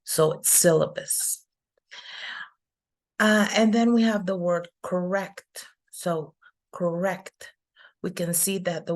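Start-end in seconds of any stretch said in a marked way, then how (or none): 0.5-1.4 "syllabus" with the first syllable stressed. Shown as a demonstration. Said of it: "goes in the first syllable". 6.7-7.5 "correct" said slowly, second syllable stressed. Shown as a demonstration. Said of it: "is before the second syllable".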